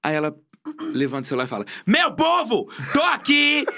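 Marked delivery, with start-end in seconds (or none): 1.9-3.6 high, loud, laughing mock yell to camera; imitated shouting friend. Friend shouting to stories in a museum, mock yell. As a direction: ham up a friend yelling into her phone. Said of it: "Jéssica, para de gritar".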